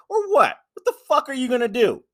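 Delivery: high, loud mocking shout at Roman; high-pitched angry boss voice; mock Vince yelling. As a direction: yell it back like an outraged boss. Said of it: "I'm like".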